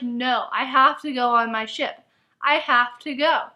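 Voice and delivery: slow, deliberate mock refusal; solemn put-on determination; mock resolute heroine. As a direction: imitate a heroine insisting on leaving. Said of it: "she's like".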